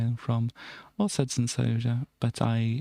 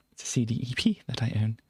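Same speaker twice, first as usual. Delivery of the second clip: a hushed unvoiced whisper; whispered repeat; 3 semitones lower, faster than usual. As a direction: murmur it to yourself.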